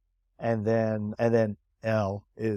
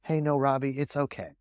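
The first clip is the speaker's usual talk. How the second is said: reassuring buddy; 5 dB quieter than usual. Retold or imitated. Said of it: "your good buddy's sitting there going".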